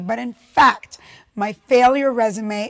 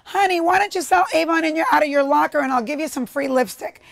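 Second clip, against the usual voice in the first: imitated saleslady, higher-pitched opening, easing down; coaxing saleslady; 5 semitones higher than usual. Avon lady to a schoolgirl, coaxing in a higher voice. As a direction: play the lady down the street making a friendly pitch.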